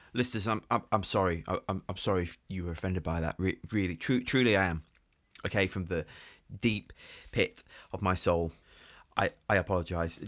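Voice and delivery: stammering mock-sincere sorry; fake apology. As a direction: grovel theatrically to listeners. Overdone stuttering apology.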